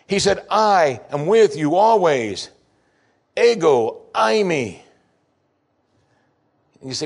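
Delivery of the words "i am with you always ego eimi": solemn, slow quote. Acted. Quoting Jesus solemnly.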